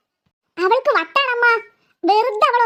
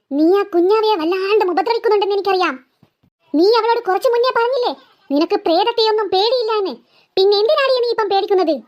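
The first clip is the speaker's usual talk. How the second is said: ghost voice; 3 semitones lower than usual. Acted. Ghost scolds second girl.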